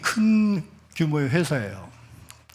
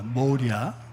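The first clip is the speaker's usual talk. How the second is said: 뭐랴 with a low Chungcheong tune; a casual Chungcheong dialect answer; Chungcheong reply; 4 semitones lower, much slower than usual. Shown as a demonstration. Preacher giving the Chungcheong reply, in dialect. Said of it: "이렇게 얘기하도록 합니다".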